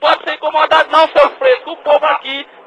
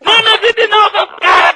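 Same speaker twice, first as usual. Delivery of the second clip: angry shout; 6 semitones higher than usual. Real, not acted. Angry phone quarrel.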